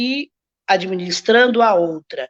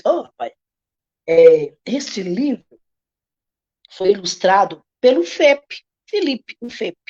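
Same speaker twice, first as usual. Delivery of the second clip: apresentação expressiva; 2 semitones lower than usual. Shown as a demonstration. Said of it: "Distribua com carinho cada sílaba".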